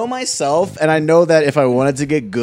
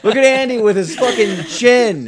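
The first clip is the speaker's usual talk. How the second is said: higher, drawn-out playful taunt through laughter; mock jeering; 7 semitones higher, slower than usual. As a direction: tease a friend like a schoolyard bully. Acting out bullies teasing friend.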